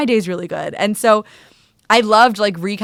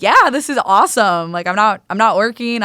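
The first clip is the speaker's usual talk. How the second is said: excited retelling; 3 semitones higher, 5 dB louder than usual. Retold or imitated. Acts out her happy reply.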